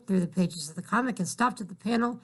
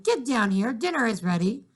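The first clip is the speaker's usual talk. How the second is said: calling out; 3 semitones higher than usual. Acted. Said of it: "her mother shouted".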